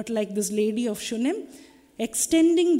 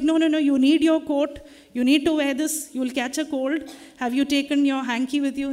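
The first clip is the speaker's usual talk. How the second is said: lightly acted insistent mother, a little raised; fussing mother; 2 semitones higher, 3 dB louder than usual. Mother calling after a child walking out, mildly insistent fussing. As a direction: nag gently like a worried mother. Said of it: "Mothers have always done that to us".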